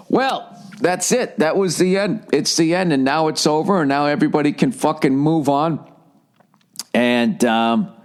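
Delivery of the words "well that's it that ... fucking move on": high, sing-song mocking tone; mock dismissive voice. Mocking the crowd who shrug it off, in a high sing-song. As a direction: parody the people who say just move on. Mocking people saying it's over.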